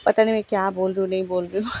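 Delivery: fast, rushed chatter; rushed talking. Real, not acted. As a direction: hurry through it, a bit flustered. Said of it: "मैं ना आज बहुत फटाफट में बोल रही हूँ".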